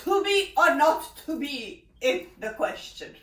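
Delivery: grand stage-actor delivery; theatrical actor. Retold or imitated. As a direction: play the Shakespearean actor. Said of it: "some actor, they're saying".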